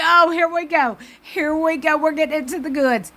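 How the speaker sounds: happy, excited, as if the big moment is finally coming; excited anticipation. Retold or imitated. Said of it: "I'm like".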